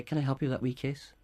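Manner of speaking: tender helpful offer. Shown as a demonstration. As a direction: gently offer to help with the "wee case". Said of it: "it's better, it's warmer, softer".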